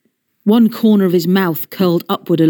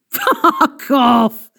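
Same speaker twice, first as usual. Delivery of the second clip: spluttering laugh; 5 semitones higher than usual. A narrator's reading. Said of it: "spluttered the wolf, laughing".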